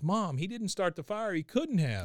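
mock tearful pleading. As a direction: plead to mom, lightly acting tearful. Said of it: "He's crying the whole time he's doing this".

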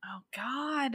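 horrified whisper. Real, not acted. Horrified reaction to abuse detail.

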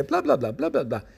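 mock chatter. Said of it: "nunca se callaban".

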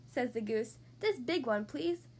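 lively picture-book read-aloud; reading to children. Acted. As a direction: read it like bedtime story time. Reads picture book to kids.

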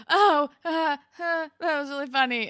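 high, loud flustered reply; flustered Manny. Retold or imitated. Manny covering her embarrassment to the boy, flustered. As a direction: gush it out, caught off guard and embarrassed.

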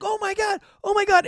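high-pitched mock freak-out; freaked-out crowd. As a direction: imitate onlookers crying out in amazement. Imitating the panicked crowd at distillery.

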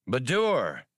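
surprised greeting. A narrator's reading. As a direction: greet an old friend by surprise. Han greets old friend, surprised.

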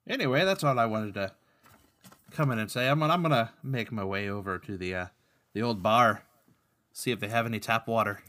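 lightly put-on Irish brogue; halting mock-Irish accent; the speaker's Irish accent. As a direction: take your leave in amateur Irish. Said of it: "Speaking of bad accents".

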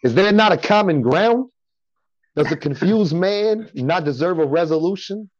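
high, theatrical pleading in mock Italian-American accent; stuck in Italian-American persona. Guest imitating himself pleading with his girl, high mock Italian-American accent. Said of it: "I get caught in it sometimes".

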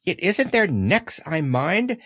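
slow, serious little creature; mildly earnest piglet. Acted. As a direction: spell out the worry sincerely. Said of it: "said Piglet earnestly".

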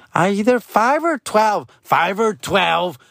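slow, puzzled five or twelve; unsure kid answer. Retold or imitated. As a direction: drag it out unsure. Son answers, dad echoes.

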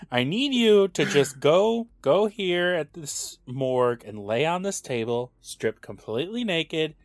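soft, careful, mock-earnest pitch; mock coaxing boyfriend. Man explaining an absurd prank to his girlfriend, softly coaxing. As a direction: lay it out gently, like a boyfriend asking a favor. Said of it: "go to his girlfriend and be like".

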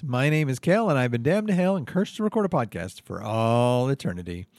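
bright announcer read of the show opening; podcast host intro. Acted. Host welcoming damned listeners, upbeat announcer voice. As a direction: open the show like a cheery radio host.

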